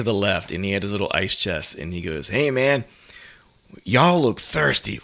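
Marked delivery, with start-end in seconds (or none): 2.3-5.0 conspiratorial whisper, slow; mock whisper from a guy in the crowd; whispered offer. Crowd guy offering beer quietly.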